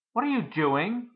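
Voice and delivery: alarmed high shout at the father; mother shouting. Acted. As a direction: shout it up high across the kitchen. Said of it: "my mother shouted".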